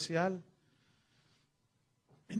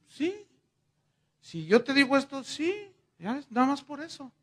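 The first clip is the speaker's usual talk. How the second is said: voz aguda; 7 semitones higher than usual. Retold or imitated. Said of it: "¿lo harás?".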